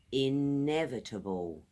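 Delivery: careful teacher model of inevitable; model word. Shown as a demonstration. Teacher modeling inevitable for the class, clear and careful. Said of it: "Four syllables".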